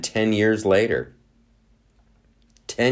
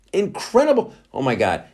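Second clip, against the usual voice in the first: mock amazement; 11 semitones higher, 4 dB louder than usual. Mock marvel at results.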